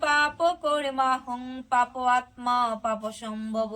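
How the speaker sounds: measured prayer recitation; devotional prayer. Acted. Preacher praying for the devotees in an even recitation. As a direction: recite like a humble plea for mercy.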